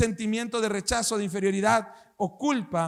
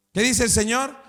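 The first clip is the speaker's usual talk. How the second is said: rousing call to the church; 3 dB louder than usual. Acted. Preacher rallying the congregation, rousing louder question. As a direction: lift the question to rally the crowd.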